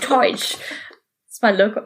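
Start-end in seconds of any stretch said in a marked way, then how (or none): 0.0-0.5 "Church." said "choych" with a Boston vowel; "Church." stretched with a Boston oi sound; Boston accent. Shown as a demonstration. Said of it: "it's my Boston accent coming out".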